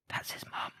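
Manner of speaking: hushed whisper, mimicking a cinema-goer; soft, voiceless mock aside; imitated whisper. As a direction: whisper it like leaning over to a wife. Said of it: "whispers to his wife".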